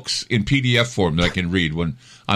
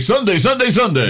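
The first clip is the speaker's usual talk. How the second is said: monster truck announcer; 9 semitones higher than usual. Pretend. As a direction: hype it like a drag race promo.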